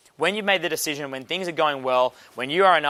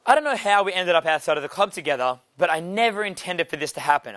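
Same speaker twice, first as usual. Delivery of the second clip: imitating girl protesting; 3 semitones higher than usual. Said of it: "she's like".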